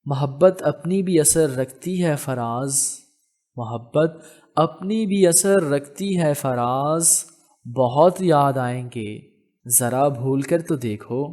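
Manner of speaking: slow, deliberate recital, repeating the first line; poetry recitation. Acted. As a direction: draw the verse out as a knowing challenge. Raham recites Faraz couplet.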